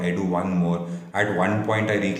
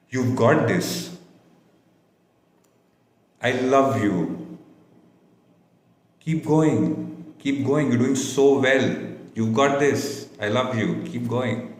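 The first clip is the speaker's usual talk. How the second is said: higher, insistent encouragement; heartfelt affirmation; 5 semitones higher than usual. Shown as a demonstration. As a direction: say it like you truly mean it. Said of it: "You're telling them a truth".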